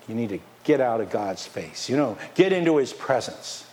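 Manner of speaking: ordinary delivery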